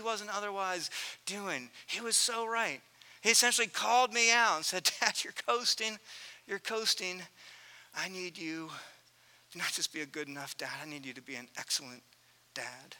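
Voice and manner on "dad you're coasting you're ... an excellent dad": quiet rebuke. Retold or imitated. Son calling dad out.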